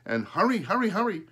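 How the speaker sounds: high, loud mock crow calls; imitating the crow. Boy imitates crow's calls to his father, high squawky. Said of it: "I heard him calling".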